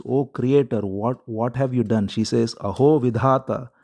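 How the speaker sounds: lightly voiced lament, pleading with the creator; queen mourning her dead son, mildly tearful cry. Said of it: "crying out".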